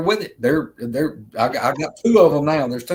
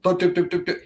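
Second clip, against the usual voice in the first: impression of creature chatter; 4 semitones higher, faster than usual. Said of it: "I'll try to do an impersonation of it".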